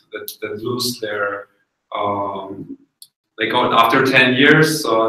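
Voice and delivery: groping for the English word; translating in head. Real, not acted. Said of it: "I, I forgot the word for it".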